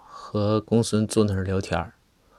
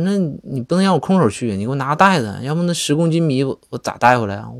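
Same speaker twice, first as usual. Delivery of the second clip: put-on kid's whiny protest; 5 semitones higher, 4 dB louder than usual. Boy protests to his mother.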